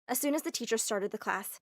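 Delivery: usual speaking voice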